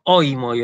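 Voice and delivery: "oimoi" stressed on the first O; stress on omicron. Shown as a demonstration. Teacher shows pronunciation versus written accent, stress on omicron. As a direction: hit the opening O of "oimoi", gliding into I. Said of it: "yo acentúo la ómicron".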